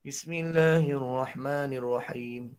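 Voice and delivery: slow, low and soft Bismillahirrahmanirrahim, stuck down low; low voice that can't rise. Shown as a demonstration. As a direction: recite it low and slow, unable to lift. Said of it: "Suara rendah".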